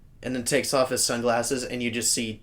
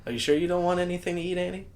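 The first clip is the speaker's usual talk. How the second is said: high, quick imitated offer of food; solicitous character voice; 8 semitones higher, faster than usual. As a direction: imitate an over-eager companion, pitched high.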